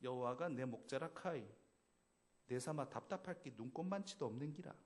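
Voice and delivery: clumsy Gyeongsang accent from a Seoul speaker; an awkward try at Gyeongsang dialect; 어설픈 경상도 사투리. Shown as a demonstration. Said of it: "경상도 사투리 하면은".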